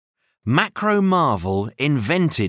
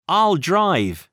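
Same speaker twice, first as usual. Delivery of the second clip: cheering; 6 semitones higher than usual. Acted. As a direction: cheer as if you just claimed the wheel. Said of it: "he cheered".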